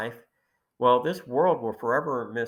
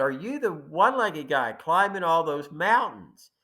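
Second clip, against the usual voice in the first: raised, higher voice of a stranger calling out; mock holler across a distance; imitated yelling; 4 semitones higher, 5 dB louder than usual. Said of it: "some guy starts yelling".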